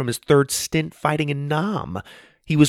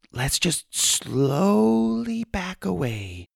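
nervous hush; 9 semitones higher, 4 dB quieter, much slower than usual. Acted. Backing away from kangaroo.

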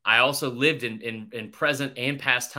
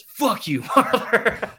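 laughing through a quote; 9 semitones higher, 6 dB louder, much slower than usual. Retold or imitated. Coach's punchline, cracking up.

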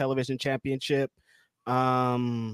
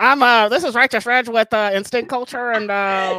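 high, squeaky chipmunk voice; mock her in a squeaky high voice; high squeaky Denise impression; 9 semitones higher, 8 dB louder than usual. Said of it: "That's what I sound like to you".

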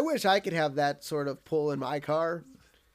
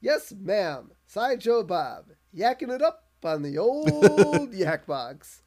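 smug radio host. Retold or imitated. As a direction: ham up the self-satisfied host. Radio host voiced in recap.

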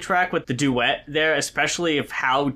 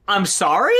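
"I'm sorry?" as a baffled question rising at the end; incredulous "I'm sorry?"; 3 semitones higher, 4 dB louder than usual. Shown as a demonstration. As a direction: ask "I'm sorry?" like you can't believe it. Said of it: "you kind of visual it as".

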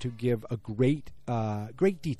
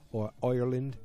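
hammy, badly faked Irish accent; amateur mock-Irish brogue; terrible Irish accent. Shown as a demonstration. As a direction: slip into a bad Irish accent. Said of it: "I'm doing terrible accents".

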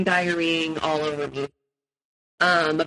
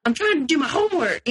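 high mock yell of a tense boyfriend; mock scream; 12 semitones higher than usual. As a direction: imitate him snapping at the room, pitched way up. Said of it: "just screams to everyone".

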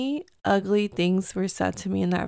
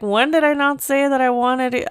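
retold indignant comeback; 4 semitones higher than usual.

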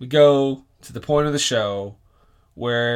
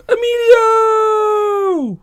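shout; 9 dB louder, much slower than usual. Pretend. Haiku ends in wild yell.

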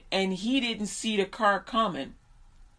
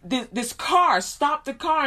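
mildly raised, higher warning voice; half-shouted plea, reenacted; urgent retold warning; 5 semitones higher, slower than usual. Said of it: "I'm shouting at the boy".

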